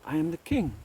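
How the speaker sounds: the king roars at being ignored; angry king. Acted. Scene: a proud king snaps at the wise man, furious. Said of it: "he gets so angry with him".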